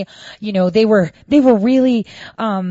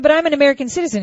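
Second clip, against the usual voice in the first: higher and fast, outraged; indignant protest; 8 semitones higher, much faster than usual. Retold or imitated. Telling the poll worker she is a citizen, fast and outraged. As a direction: fire it back in disbelief.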